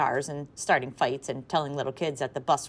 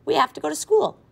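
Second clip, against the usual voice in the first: much higher, louder yell; yelled back; 12 semitones higher, 8 dB louder than usual. A narrator's reading. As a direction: shout it back across. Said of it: "Imogene yelled back".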